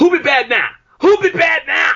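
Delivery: screaming yell at a very high pitch. Retelling a match call by Dusty Rhodes: imitating Dusty Rhodes screaming. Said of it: "Dusty's screaming".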